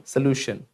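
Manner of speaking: सॉल्यूशन as "suh-lyoo-shn"; short first vowel. Shown as a demonstration. Teacher correcting the class, short vowels. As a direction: begin सॉल्यूशन with "suh", not "so". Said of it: "so नहीं".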